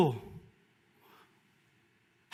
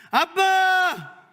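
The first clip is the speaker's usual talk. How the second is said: long, drawn-out, high, loud call; crying out to Dad; 7 dB louder, much slower than usual. Shown as a demonstration. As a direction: stretch out the call to Father as a demo. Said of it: "제가 한번 아빠 불러보겠습니다".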